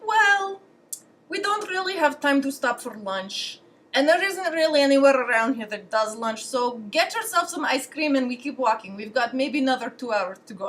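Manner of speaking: hint of an offhand guide passing on bad news; lightly voiced guide; Russian guide. Acted quote of the Russian guide.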